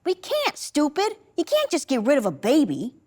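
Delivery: lightly voiced older sister, exasperated; a touch of bossy sibling, jumping up high at first; scolding sister. Older sister scolds the younger child.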